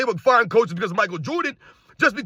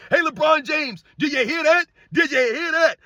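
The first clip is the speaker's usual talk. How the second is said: mocking call-out; 5 semitones higher than usual. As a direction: shout across the room at him. Calling out LeBron mockingly.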